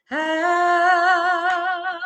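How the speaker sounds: high, loud sustained "ah"; pardoning release. Shown as a demonstration. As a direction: let old hurts go on a long open vowel. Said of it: "this is a pardon".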